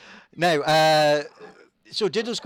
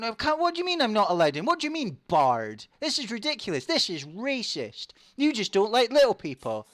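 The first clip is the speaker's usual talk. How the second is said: high, fast, outraged squeak; a tiny gnome protesting at the door; high-pitched gnome in an outraged huff; indignant gnome; 9 semitones higher, 3 dB louder than usual. Acted. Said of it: "he's, he's going".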